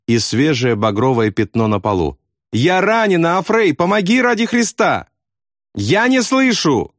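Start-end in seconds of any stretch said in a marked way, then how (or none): 2.5-5.1 desperate plea. A narrator's reading. Wounded man pleading desperately. 5.7-6.9 high, slow, patient shout; patient repeat. A narrator's reading. Deaf friend patiently repeats, slowly and high. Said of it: "терпеливо повторил Аафрей".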